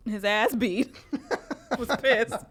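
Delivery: ordinary delivery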